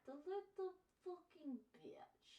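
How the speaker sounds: slow, high whispered self-insult; mock whisper. Streamer whispering a self-insult to chat. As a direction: hiss it playfully at yourself.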